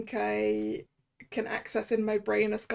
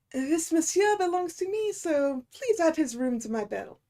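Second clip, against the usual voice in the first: put-on horrendous French accent; 3 semitones higher than usual. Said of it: "I've broken out the, uh, horrendous accent".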